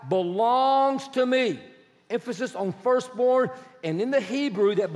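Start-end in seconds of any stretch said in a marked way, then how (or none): 0.1-1.6 "belongs to me" drawn out slowly; very emphatic. Acted. Preacher reading the Lord's words to Moses, emphatic. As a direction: stretch "belongs to me" with weight. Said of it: "has a tense that makes it very emphatic".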